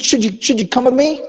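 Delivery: "should you" merged American-style into "should-joo"; high, rising American linking demo; American accent. Shown as a demonstration. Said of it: "Maybe last one".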